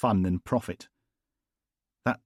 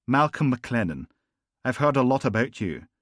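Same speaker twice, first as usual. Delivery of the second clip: higher, louder smooth charm; silky gangster; 5 semitones higher, 5 dB louder than usual. Acted. Gangster charming Logan after the funeral, silky. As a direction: purr the polite menace. McLennan introduces himself.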